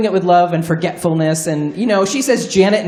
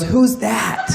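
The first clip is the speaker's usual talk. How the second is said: confused grandma; 3 semitones higher than usual. Retold or imitated. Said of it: "She goes".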